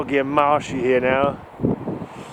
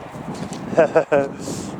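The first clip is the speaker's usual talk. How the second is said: nervous laugh; 4 dB quieter than usual. Real, not acted. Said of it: "have a guffaw".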